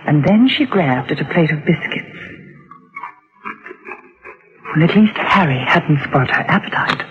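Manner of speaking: low, even storytelling voice; mother's reflective narration; first-person narration. A narrator's reading. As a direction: recount it as an inward memory. Mother narrates between dialogue.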